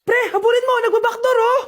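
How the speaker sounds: high, frantic yelling to a teammate; urgent game shout. Acted. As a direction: yell a warning mid-game. Friends playing a phone game. (natatarantang sigaw)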